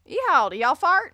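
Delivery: over-the-top Texan holler; mock Southern accent. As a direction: whoop Yeehaw like a cowboy.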